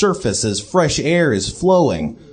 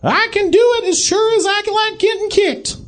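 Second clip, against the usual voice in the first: put-on robot baby voice.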